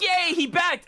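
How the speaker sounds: high, loud mock cheer; replaying his own excited yell; retold yell. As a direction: shout it like you just got fooled. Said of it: "I just yelled so extremely hard".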